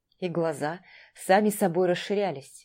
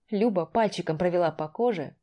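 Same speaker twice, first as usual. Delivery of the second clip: plain reading voice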